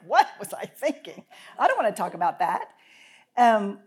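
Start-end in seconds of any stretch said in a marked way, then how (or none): 0.1-2.7 dismayed. Retold or imitated. Dismayed at own old note.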